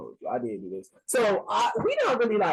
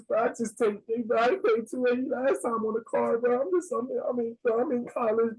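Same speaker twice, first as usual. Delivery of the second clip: higher, whiny put-on sob story; mock crying plea; 6 semitones higher than usual. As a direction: fake tears to talk the price down, raised pitch. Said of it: "don't cry, don't cry".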